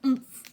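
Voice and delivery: short, loud impact grunt; acted thud of pain; painful oomph. A narrator's reading. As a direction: grunt as if winded by a crash. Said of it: "with a painful".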